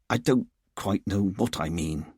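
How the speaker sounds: halting, defeated admission; quiet despair. Acted. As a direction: give up on explaining yourself. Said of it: "Richard said in quiet despair".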